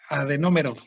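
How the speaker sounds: "Adenómero" with the accent on NÓ; stress on the O. Shown as a demonstration. Teacher repeats the term after a student, stress on the O. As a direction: stress the first O of "Adenómero", then fall. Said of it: "así como se escucha tal cual".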